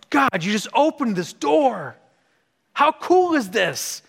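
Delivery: high, drawn-out thrilled exclamation; excited marveling. Retold or imitated. Acted thrilled reaction to God.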